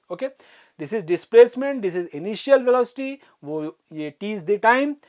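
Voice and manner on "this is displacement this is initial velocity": each term drawn out slowly; slow labelling. Shown as a demonstration. Teacher naming terms for students, slow and deliberate. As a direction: point at each symbol deliberately.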